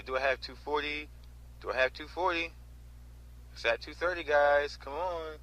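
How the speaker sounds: mild mock auctioneer egging on bidders; imitating the auctioneer. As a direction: coax bids like a lazy auctioneer. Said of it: "That's exactly how he says it".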